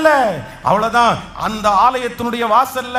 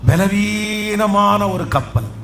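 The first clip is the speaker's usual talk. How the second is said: P=A; slow stressed phrase; 3 semitones lower, much slower than usual. Shown as a demonstration. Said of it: "இது ரொம்ப".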